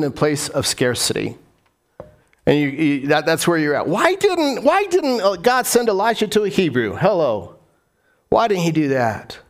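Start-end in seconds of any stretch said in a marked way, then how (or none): 3.9-6.9 sudden high-pitched rhetorical why; pitch jump. Real, not acted. Preacher challenging the congregation, sudden high pitch. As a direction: leap way up on why. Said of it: "rhetorical question".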